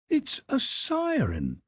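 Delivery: put-on a young servant gasping in wonder; Conseil's voice. Conseil exclaiming.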